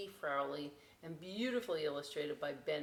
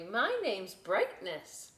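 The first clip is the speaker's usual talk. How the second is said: cheerful; 3 semitones higher, 5 dB louder, slower than usual. Acted. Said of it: "the boat said cheerily".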